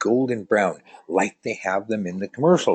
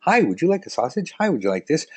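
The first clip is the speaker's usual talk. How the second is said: sample seller; 9 semitones higher, faster than usual. Retold or imitated. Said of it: "Costco has those all the time".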